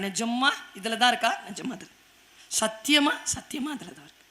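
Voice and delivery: very soft, near-whispered oath; hushed exchange. Acted. Samson quietly swearing to Delilah about his hair. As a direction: barely breathe the promise.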